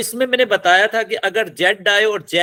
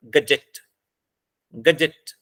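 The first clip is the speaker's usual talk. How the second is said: "गजेट" with weight on the final "जेट"; stress on last syllable; 3 semitones lower, much slower than usual. Shown as a demonstration. Teacher sounding out syllables for students, final-syllable stress on "गजेट". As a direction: say "गजेट" twice, separately, landing on जेट. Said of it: "last syllable पे".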